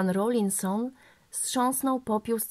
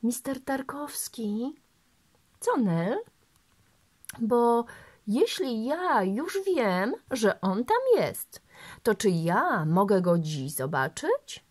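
put-on pleading little girl; 3 semitones higher, slower than usual. Girl begs to see dog.

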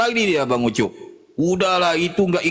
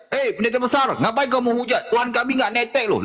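higher mock protest from an offended believer; lightly voiced objector; 7 semitones higher than usual. Offended Christian scolding the speaker for blasphemy, mock protest. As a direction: lightly act out an indignant heckler. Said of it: "Dia ngomong aku menghujat".

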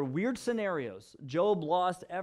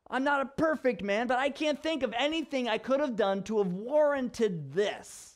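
pitched-up, mildly hammed indignant pleading; indignant protest; 4 semitones higher than usual. Job demanding God explain his punishment, acted indignant protest. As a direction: argue your innocence, voice riding high.

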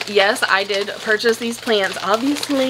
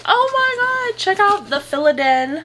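excited squeal; 11 semitones higher than usual. Retold or imitated. Friend excitedly recommends shop.

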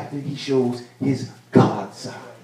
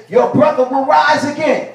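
raised, higher declaration of Jesus; voicing Jesus; 11 semitones higher, 3 dB louder than usual. Preacher voicing Jesus to grieving Martha, lifted and loud. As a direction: proclaim it like Jesus comforting.

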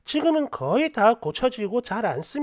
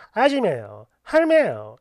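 put-on Gyeongsang accent; 4 semitones lower than usual. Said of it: "이렇게 하세요".

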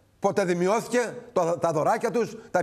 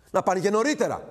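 ordinary delivery

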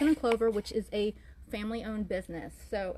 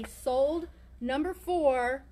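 slow, spelled-out; 3 dB louder, much slower than usual. Shown as a demonstration. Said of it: "you need to say".

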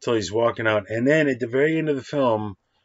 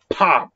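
imitated bat crack; 7 semitones higher, 7 dB louder than usual. Imitating bat hitting ball.

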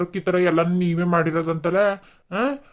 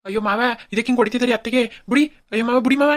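pleading; 4 semitones higher, faster than usual. Acted. Pleading while father-in-law beats.

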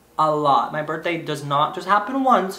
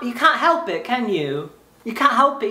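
put-on English accent; 3 semitones higher than usual. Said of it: "pretend I'm from England".

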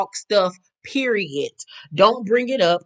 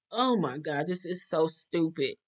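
mild exasperation; 3 semitones lower, 10 dB quieter than usual. Retold or imitated. Own weary reaction to petty drama.

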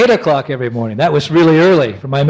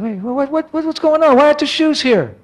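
much higher, rising alarm; alarmed surprise; 12 semitones higher than usual. Retold or imitated. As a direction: panic as it dawns on you. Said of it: "I said".

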